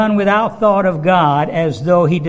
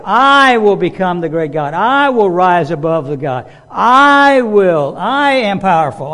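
boastful Satan; 5 dB louder than usual. Retold or imitated. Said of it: "He said".

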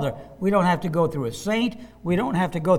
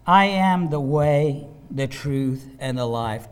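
calm, settling lower with each phrase; calm answer; 4 semitones lower, slower than usual. Acted. Acting Jesus's answer to whining.

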